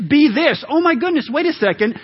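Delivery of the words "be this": approving demo. Shown as a demonstration. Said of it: "acting out the right way".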